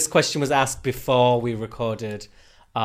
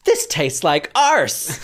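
RuPaul; 3 semitones higher, 5 dB louder, much slower than usual. Retold or imitated. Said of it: "RuPaul drank from Michelle Visage's water and then went".

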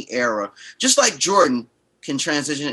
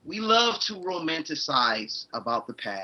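faded out; 2 semitones lower, 7 dB quieter than usual. Real, not acted. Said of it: "you faded out just a little bit".

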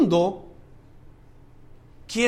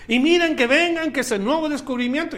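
mock huckster pitch; 8 semitones higher, 5 dB louder than usual. Mock salesman hawking miracle bottles.

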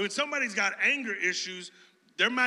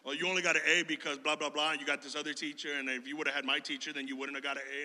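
dismissive jealous friend; 6 semitones lower, 5 dB quieter, faster than usual. Retold or imitated. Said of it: "And it's like".

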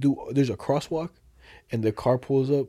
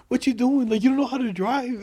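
retold scolding; 10 semitones higher, 3 dB louder than usual. Retelling the swerving van to a friend, retold scolding. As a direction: re-enact telling off a bad driver.

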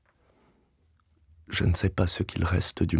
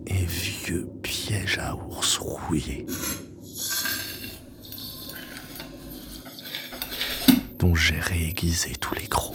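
whispered narration; slower than usual. A narrator's reading. Narrator whispers the bear trap.

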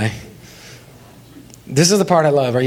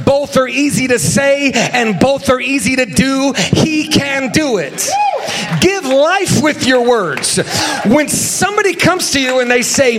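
full-force preaching; 3 semitones higher than usual. Acted. Preaching crescendo.

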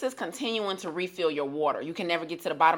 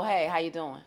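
flat unimpressed reply; 3 semitones lower, 5 dB quieter than usual. Retold or imitated. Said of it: "but, oh".

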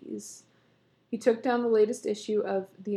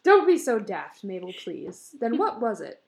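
alarmed outburst; 8 dB louder than usual. Acted. Wife's alarmed outburst continues.

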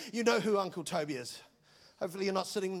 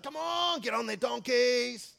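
rallying the crowd; 3 dB louder, slower than usual. Acted. Crowd rallying to chase Jesus.

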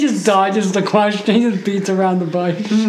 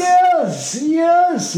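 imitating character voice; 9 semitones higher than usual. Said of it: "He did the Yes!".

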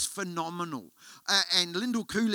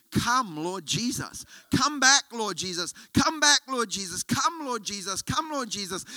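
crying out; 4 semitones higher than usual. Retold or imitated. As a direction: call out to the Lord, repeating with growing urgency. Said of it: "It was literally".

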